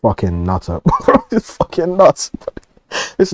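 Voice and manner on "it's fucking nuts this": laughing. Real, not acted. Laughing at the clip.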